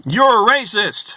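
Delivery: high, loud indignant mimicry; imitating the guest calling him racist; mock accusation. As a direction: fling it at him with mock outrage.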